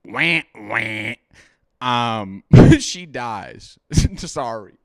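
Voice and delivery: tipsy, drinking while talking. Real, not acted. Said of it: "We're concerned for our buddy Chris".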